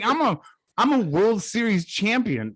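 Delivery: lightly voiced jilted athlete; mock proud A-Rod. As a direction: play the wounded star bragging. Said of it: "And he's like".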